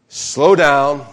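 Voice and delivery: loud, projected call to read along; leading a group reading. Real, not acted. Pastor prompts congregation to read the point aloud, loud and projected. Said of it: "Everybody read number two together".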